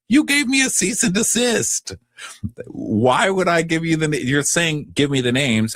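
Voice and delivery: high, exaggerated indignant voice; mock indignant castmate. Retelling the reunion fight, high mock outrage. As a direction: squeak it out as the outraged one. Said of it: "She goes".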